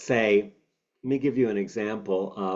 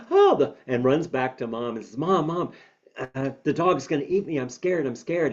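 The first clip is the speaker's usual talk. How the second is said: put-on scared child; 4 semitones higher than usual. Child voiced running to mom.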